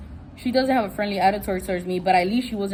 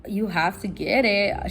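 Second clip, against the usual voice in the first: incredulous repeat; 2 semitones lower, slower than usual. Retold or imitated. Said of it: "I was like".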